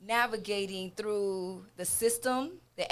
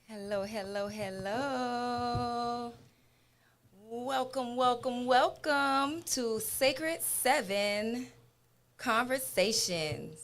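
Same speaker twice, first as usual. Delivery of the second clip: drawn-out, higher welcome; show-opening greeting; 4 semitones higher, slower than usual. Real, not acted. Host greeting viewers to Sacred Seven, drawn-out welcome. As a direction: open the show with long, stretched hellos.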